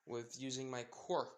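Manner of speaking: "quirk" set apart with extra weight; slow lead-in, emphasis landing on "quirk"; stress on quirk. Acted. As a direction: lean on the word "quirk" at the end. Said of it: "putting more emphasis on the word quirk".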